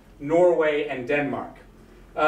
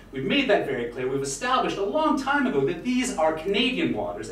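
mock outburst; 3 semitones higher than usual. Lecturer acting out the Canadian Foreign Minister's explosion, mock outrage. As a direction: act out an understated indignant tirade. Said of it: "literally exploded".

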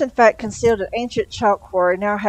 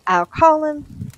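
"call" stretched long and higher; slow and drawn out; 9 semitones higher, 5 dB louder, much slower than usual. A narrator's reading. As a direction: drag "I'll call him" out slowly. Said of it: "said his master's voice".

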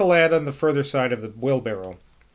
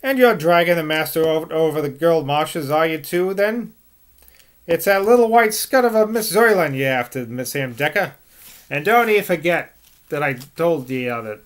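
angry West Country scolding. Acted. Servant angrily scolding young Sam in West Country accent. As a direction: scold him in a broad West Country burr. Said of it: "turned angrily on the lad".

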